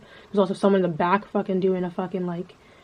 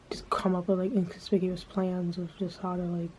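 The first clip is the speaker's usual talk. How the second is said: sneaky whisper; 6 dB quieter than usual. Real, not acted. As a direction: whisper it like a secret plot. Scheming silly plans in public.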